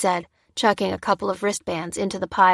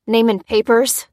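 snapped; 3 semitones higher, 6 dB louder than usual. A narrator's reading. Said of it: "snapped the first guard".

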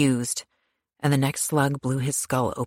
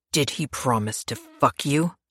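snarled. Acted. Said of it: "Pierce snarled".

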